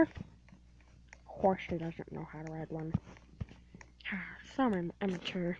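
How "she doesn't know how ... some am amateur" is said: soft unvoiced whisper; sighing whispered put-down; whispered aside. Real, not acted. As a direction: breathe it under the breath.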